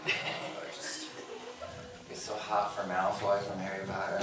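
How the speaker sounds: soft, low, airy gushing; mock swooning. Girlfriend gushing about her favorite characters, softly mock swooning. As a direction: imitate a hushed, smitten confession.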